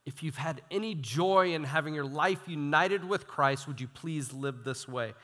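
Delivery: understated, earnest appeal; pleading. Retold or imitated. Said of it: "It's like he's pleading".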